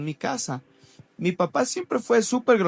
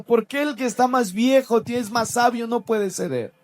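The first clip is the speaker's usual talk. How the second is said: llorando; 5 semitones higher than usual. Retold or imitated. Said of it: "dentro del baño sí lloré un rato".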